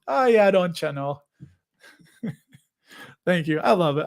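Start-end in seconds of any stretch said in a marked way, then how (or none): 0.1-1.2 put-on playful Upper Midwest Yooper accent. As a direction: imitate an Upper Peninsula local's accent. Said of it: "They do say that".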